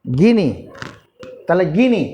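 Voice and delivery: গিনি said short as গি-নি; correct pronunciation. Shown as a demonstration. Teacher giving the child the right sound of গিনি. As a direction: settle on গিনি, two syllables. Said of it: "তাহলে উচ্চারণটা তাহলে গিনি".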